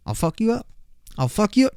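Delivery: high-pitched joking menace; mock threat. Podcaster teasing followers in a video, playful mock threat.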